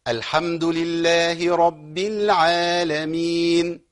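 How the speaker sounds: slow, measured tajweed recitation; Quran recitation. Shown as a demonstration. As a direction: recite slowly, mind the doubled ba. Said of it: "إيه الخطأ ممكن يبقى فين هنا". (تلاوة مجودة بطيئة)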